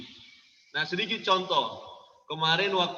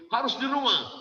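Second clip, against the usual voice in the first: put-on stern, high-pitched command to a child; mock bossy parent laying down the rule; harsh parental order; 7 semitones higher than usual. Shown as a demonstration. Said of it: "Ah, dengan lemah lembut".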